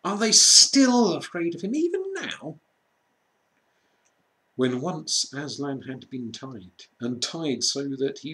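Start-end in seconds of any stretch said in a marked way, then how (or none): 0.0-2.6 much higher, tearful question; tearful Susan. A narrator's reading. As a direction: ask through tears. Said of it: "sobbed Susan".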